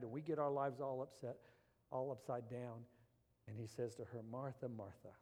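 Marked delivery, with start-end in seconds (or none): 4.2-5.1 soft, gentle call of her name; tender. Retold or imitated. Jesus gently calling to anxious Martha, tender and soft. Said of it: "there's this tenderness in His voice".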